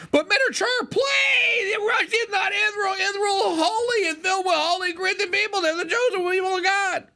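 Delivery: high, crying mock plea, hammed up; a shrieking, sobbing whine for mercy; mock-tearful senator begging the chair; whiny pleading senator. Mocking Cruz pleading.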